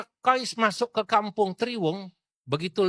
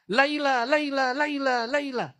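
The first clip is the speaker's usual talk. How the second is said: calling out; 8 semitones higher than usual. Acted. Qais calling after the dog.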